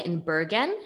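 Norwegian accent slipping out on Bergen; super Norwegian accent. Real, not acted. Host telling her guest where she lives, Norwegian accent. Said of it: "that accent was super Norwegian".

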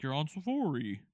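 lightly voiced tour guide; a hint of a ride announcer; spooky ride narrator. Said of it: "it's like".

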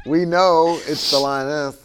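laughing while talking. Real, not acted. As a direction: push words through laughter. Pastor laughing through lioness line.

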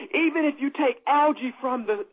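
talking too fast. Real, not acted. Preacher racing ahead to the congregation, talking too fast. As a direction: run through it eagerly, a little hurried. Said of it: "am I talking too fast?".

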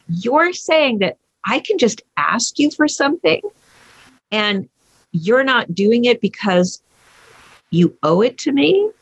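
halting disbelief, rising high at the end; incredulous. Retold or imitated. Parent checking the son's surprising offer, incredulous. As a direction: feel out each phrase, then lift into a question.

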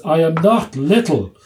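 retold shout. Doctor answering an insult before the waiting room, mock shouted retort. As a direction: proclaim it slowly, as a mild retold shout. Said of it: "I shouted out".

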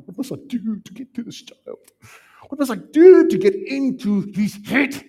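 a parent at wits' end, breaking out; exasperated parent. Pretend. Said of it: "a parent that's come to the end of their wits".

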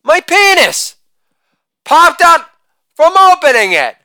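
high, lightly voiced little boy; son's voice. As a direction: squeak it out like a young son. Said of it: "my son says".

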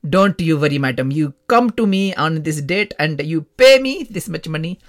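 mock holy man with an Indian accent; put-on Indian accent. Baba promising mum a fix for money, Indian accent. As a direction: imitate a baba's Indian-accented patter.

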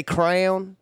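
"crown" said as one syllable for crayon; Southern pronunciation. Shown as a demonstration. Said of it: "when I say crown".

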